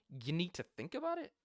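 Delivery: rising confused question; voice goes up, confused. Shown as a demonstration. Salesman echoing the client's objection back, rising and confused. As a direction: pitch it up like you're puzzled. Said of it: "Your voice goes up".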